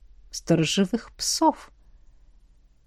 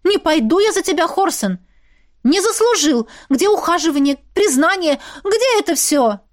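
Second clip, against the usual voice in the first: indignant outburst; 7 semitones higher than usual. A narrator's reading. Vlasta scolding Horsen before the wedding, high indignant shouting. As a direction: throw every grievance at him.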